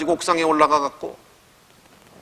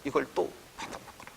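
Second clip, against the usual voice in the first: whispered gentle command; 13 dB quieter, faster than usual. Retold or imitated. Angel waking the weary Elijah, whispered. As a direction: breathe it like an angel's hush.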